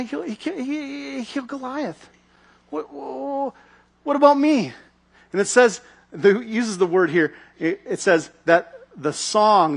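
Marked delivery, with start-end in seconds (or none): 0.0-4.7 galled jealousy. Retold or imitated. Jealous King Saul hearing the song, higher sputtering resentment. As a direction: whine with wounded pride. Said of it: "the refrain of the song just galled him".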